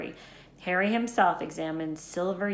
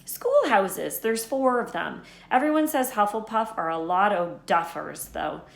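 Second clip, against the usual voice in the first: lightly voiced Hagrid; 2 semitones higher, 5 dB louder than usual. Hagrid explaining Quidditch to Harry, lightly voiced. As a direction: explain wizard sport with eager bluster.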